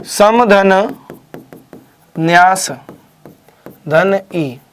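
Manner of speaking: सन्यासी in slow separate parts: सम, धन, न्यास, धन ई; word broken into parts. Shown as a demonstration. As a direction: spell out सम + न्यास + ई with long pauses. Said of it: "सन्यास और ई प्रत्यय है". (सन्यासी को टुकड़ों में तोड़कर, रुक-रुककर)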